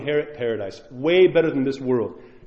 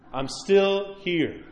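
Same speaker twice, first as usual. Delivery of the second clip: "I'm still here" drawn out very slowly, the "still" stretched; a dying mother slowly repeating "I'm still here"; 3 semitones higher, much slower than usual. Retold or imitated. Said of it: "She's like".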